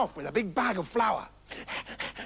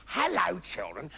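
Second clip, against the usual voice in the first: wolf's greeting sinking low; botched practice greeting, falling away; failed nice voice; 3 semitones lower, 4 dB quieter, slower than usual. Acted. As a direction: start normally, drop low and soft on the second word. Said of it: "practiced speaking with a nice voice".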